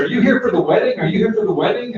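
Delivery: high, eager repeated question; a young woman eagerly asking about the wedding. Retold or imitated. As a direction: ask it breathlessly like an excited stranger. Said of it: "grabs my arm and says".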